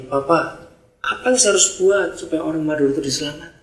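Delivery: quietly earnest prayer to God; sincere prayer. Shown as a demonstration. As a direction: pray humbly and sincerely. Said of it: "Harusnya doanya gini".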